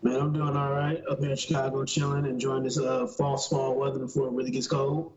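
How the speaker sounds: robotic, distorted mic sound. Real, not acted. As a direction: talk through a glitchy robotic mic. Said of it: "You, you sounded robotic in a motherfucker".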